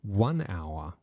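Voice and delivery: slow, even recorded time announcement; talking clock phone voice. Retold or imitated. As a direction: read it like the old phone speaking clock. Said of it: "This is for the millennials and older".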